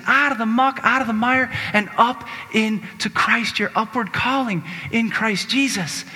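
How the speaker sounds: rhythmic, rising preacher litany; preaching cadence. Acted. Preacher calling the congregation to rise, rhythmic. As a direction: build it line by line.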